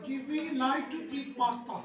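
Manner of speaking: slow, careful demo of pasta in a sentence; slow model sentence. Shown as a demonstration. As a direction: read it slowly for the class. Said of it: "एक ही sound निकलेगी". (धीमे, साफ़ उच्चारण में वाक्य)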